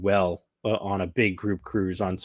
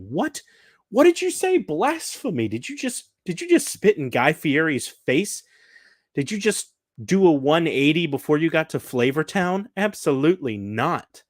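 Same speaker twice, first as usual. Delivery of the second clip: squeaky, high, loud disbelief, hammed up; mock outrage; 7 semitones higher, 3 dB louder than usual. Vlogger retelling answer to father-in-law's chicken praise, hammed-up outraged squeal. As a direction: play the shocked Guy Fieri fan, over the top.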